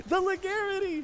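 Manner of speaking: excited laughing shout. Real, not acted. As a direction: burst out laughing at the play. Laughs at a clutch play.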